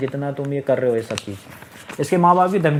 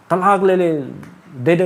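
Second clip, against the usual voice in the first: imitating an angry father-in-law, louder; angry demand; 3 semitones higher, 4 dB louder than usual. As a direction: fling out the demand in a retold rage. Father-in-law's angry divorce demand.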